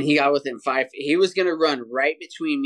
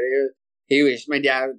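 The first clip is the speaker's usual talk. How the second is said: usual speaking voice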